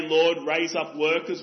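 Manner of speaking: empty, self-satisfied prayer for workers; hypocrite's prayer. Retold or imitated. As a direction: pray it like a religious hypocrite. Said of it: "That's a prayer for religious hypocrites".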